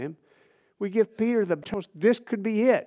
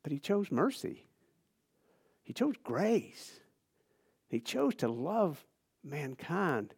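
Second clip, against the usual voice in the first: soft, slow emphasis; 6 dB quieter, slower than usual. Real, not acted. Preacher softens on God's mercy.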